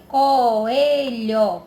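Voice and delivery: "Coelho" loud and drawn out, syllables joined; whole word, stretched. Shown as a demonstration. Teacher showing vowels together in the word, "Coelho" loud and connected. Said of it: "O O e o E juntinho na palavra".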